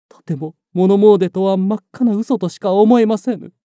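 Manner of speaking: urgent report. Acted. Breathless servant reports attack.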